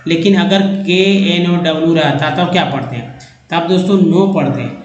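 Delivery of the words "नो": नो said as "no", with no K sound; silent K. Shown as a demonstration. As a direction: say नो with a long O, not "now". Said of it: "नाउन नहीं पढ़ते".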